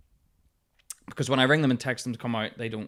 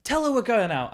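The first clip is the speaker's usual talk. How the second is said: pushing mate; 6 semitones higher than usual. Retold or imitated. Mate voiced pushing again.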